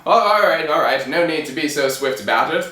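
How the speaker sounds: loud start, brisk royal brush-off; king's voice. Acted. King silencing the flustered tailor, brisk kingly voice. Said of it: "said the king".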